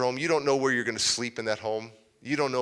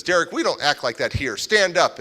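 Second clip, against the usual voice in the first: firm mother; 3 semitones higher, 5 dB louder than usual. Retold or imitated. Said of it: "my foster mom says".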